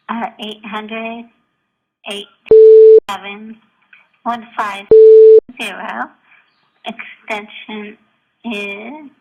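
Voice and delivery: voicemail over the phone; recorded phone message; answering machine message. Real, not acted. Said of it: "this gem of a voicemail".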